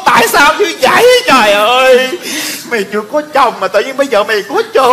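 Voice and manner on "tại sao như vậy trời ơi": acted tearful lament; distraught wail. Learns unmarried Út is pregnant, distraught wailing. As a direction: wail in shock at the family news.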